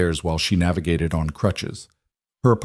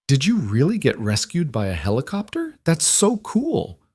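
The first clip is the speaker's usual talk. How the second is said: put-on excited little girl; 6 semitones higher than usual. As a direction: gush like a thrilled kid. Child thrilled by helicopter story.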